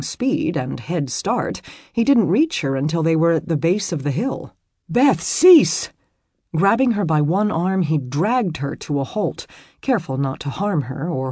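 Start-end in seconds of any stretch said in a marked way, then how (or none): 4.9-5.9 raised, louder urgent order; commanding call. A narrator's reading. Robert calling to Beth as he chases her, urgent command. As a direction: call out to stop someone fleeing.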